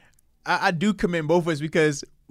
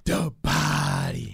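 nickname drop; 5 semitones lower, 5 dB quieter, much slower than usual. Acted.

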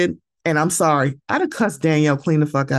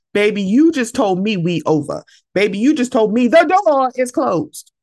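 heated retort; 4 semitones higher than usual. Retold or imitated. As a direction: push back at her hard. Arguing at Danielle.

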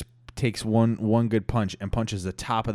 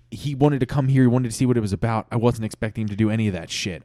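quick exasperated explanation; defensive; 2 semitones higher, 3 dB louder, faster than usual. Acted. Brad answering the angry room, defensive. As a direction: hurry out a heated excuse.

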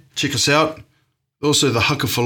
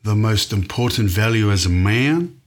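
mock Texan accent. Answering the host in a joking Texan accent. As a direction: play a polite Texan cowboy. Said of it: "That was more Texan".

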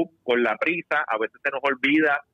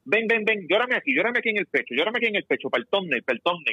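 higher, hurried coaxing mom voice; mock coaxing mother; 5 semitones higher, faster than usual. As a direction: imitate a mother coaxing her crying son for the camera. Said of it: "Ella le dice".

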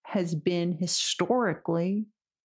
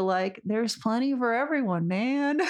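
stoner voice; 2 semitones higher than usual. Shown as a demonstration. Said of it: "I say it in a stoner voice".

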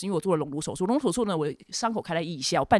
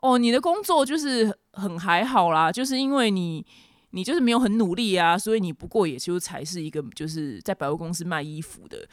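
condescending guy. Retold or imitated. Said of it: "他是却就是跟女生说".

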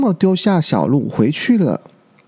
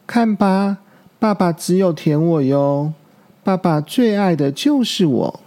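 proud; 3 semitones higher than usual. Acted. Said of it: "小鹿骄傲地说".

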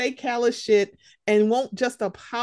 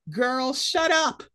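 dismissive; 3 semitones higher, slower than usual. Real, not acted. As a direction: drag it out, fed up. Dismissing bettors.

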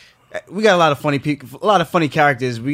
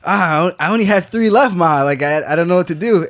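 put-on whiny kid voice; 4 semitones higher, 4 dB louder than usual. Young self talking to his mom.

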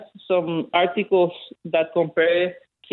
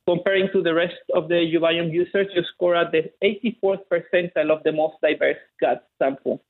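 Chilean accent. Real, not acted. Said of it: "he has a delightfully thick Chilean accent".

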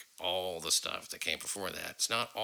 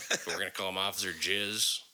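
laughing. Real, not acted. Inventing a joke nickname.

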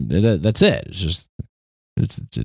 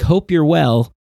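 email pleasantry; 8 semitones higher than usual. Retold or imitated. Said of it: "they're like".

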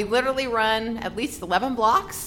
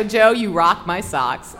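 gushing fan line; 3 semitones lower, 6 dB louder, slower than usual. Retold or imitated. Fan gushing to her idol.

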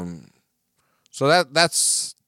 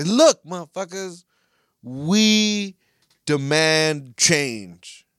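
mock fan demand; 3 semitones higher, 3 dB louder, much slower than usual. Voicing the Ultras' demand.

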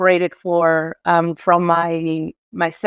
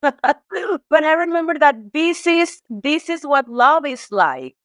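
teary laugh; 6 semitones higher, slower than usual. Real, not acted. Laughing through emotional memory.

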